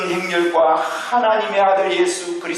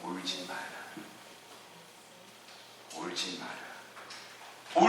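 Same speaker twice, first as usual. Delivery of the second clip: tender; 10 semitones lower, 17 dB quieter, slower than usual. Acted. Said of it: "보시고 불쌍히 여기사".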